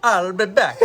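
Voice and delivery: Jamaican Terminator. Retold or imitated. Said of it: "I was doing it like a Jamaican Terminator".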